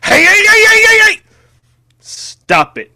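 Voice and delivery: high frantic shrieked scolding; screaming. A narrator's reading. DiCaprio smacking Hill's hand away, screaming. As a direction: scream it in sudden alarm. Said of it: "DiCaprio screams at him".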